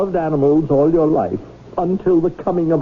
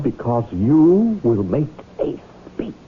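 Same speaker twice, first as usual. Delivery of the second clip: tearful; 4 semitones lower, slower than usual. Acted. Grand emotional announcement.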